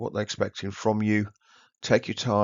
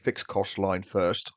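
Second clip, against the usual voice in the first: speaking with loose dentures; words slurred by slipping false teeth. Real, not acted. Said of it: "Sorry, put my teeth back in".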